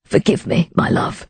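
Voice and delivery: soft and fading into a near-whisper; an apology barely breathed to his wife; remorseful hush. Acted. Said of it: "said remorsefully".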